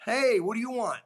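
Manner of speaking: mock-tough hey into the phone; gruff boss greeting. Coach grabbing the phone, mock-tough greeting.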